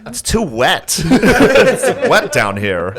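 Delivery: high, slow, laughing put-on accent; mock Jewish accent attempt. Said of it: "I can't do a Jew".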